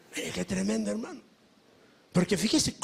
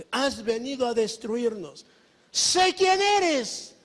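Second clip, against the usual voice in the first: defiant demon; 4 semitones higher, slower than usual. Acted. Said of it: "se ponen al brinco".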